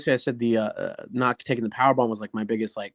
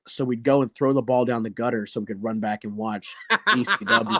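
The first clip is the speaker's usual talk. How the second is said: laughing through it. Real, not acted. Kids dodging bowling for wrestling.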